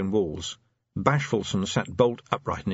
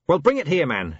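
shout; 7 semitones higher, 4 dB louder than usual. A narrator's reading. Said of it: "he shouted to Nobby".

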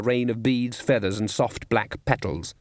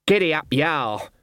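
higher driver's call; urging horses on; 4 semitones higher than usual. A narrator's reading. Cart driver to the horses in the dark, urging call. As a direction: drive the team on with a cry.

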